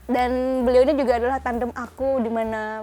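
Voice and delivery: talking while chewing gum; words around a wad of gum. Real, not acted. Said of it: "aku sambil makan permen karet".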